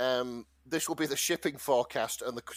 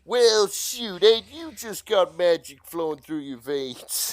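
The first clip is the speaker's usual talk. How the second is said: put-on Texan accent; 3 semitones higher, 6 dB louder, slower than usual. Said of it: "if any Texans are listening".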